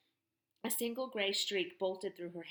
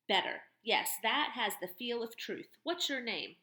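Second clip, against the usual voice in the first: louder, mocking turnaround of his question; mocking tough woman; 3 semitones higher, 4 dB louder than usual. Barn owner mocking the boy's question, loud and sardonic.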